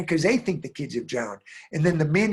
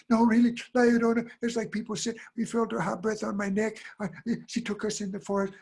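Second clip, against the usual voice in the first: put-on higher-pitched, insistent kid; pleading child; 5 semitones higher than usual. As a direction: plead to be believed by mom. Kids plead to be believed.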